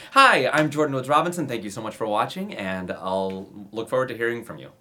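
a flawless cheerful sign-off that ignores the scene; glossy, upbeat slate delivery; perfectly put together. Shown as a demonstration. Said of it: "to be a perfectly put together".

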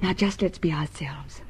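soft, hushed whisper; intimate whisper. Acted. Julia whispering to Winston in his arms. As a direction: breathe it close. Lovers alone together.

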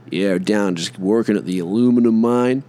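lightly put-on American accent; mock American. American talking about working at the mine, mock American accent. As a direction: play an American chatting about work. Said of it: "Fucking Amer".

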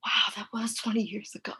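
soft, half-whispered amazement; hushed wow. Retold or imitated. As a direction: say it under your breath in mock awe. Retold awed reaction.

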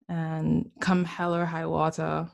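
slipping into a Caribbean accent. Real, not acted. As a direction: let the Caribbean accent come through. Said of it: "the Caribbean accent coming out".

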